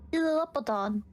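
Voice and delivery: normal talking voice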